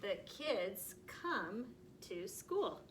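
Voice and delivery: very slow, word by word; slow reading aloud. Shown as a demonstration. Teacher reading the next sentence very slowly. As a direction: drag each word out slowly. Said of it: "next sentence".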